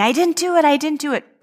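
voicing a terrified boy pleading innocence; retold child's scream. Frightened boy denying to his parents, high pleading scream. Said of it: "he's screaming".

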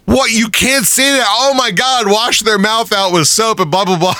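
high, squeaky mock outrage; mock shocked gasp. Friends mocking South Park characters, high mock-scandalized squeal.

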